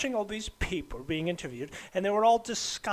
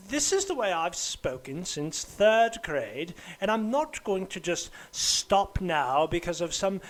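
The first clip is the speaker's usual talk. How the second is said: mildly outraged, slightly louder in a put-on English accent; indignant defiance; 4 dB louder than usual. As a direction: dig your heels in, building indignation. Acted defiant outburst about teacher.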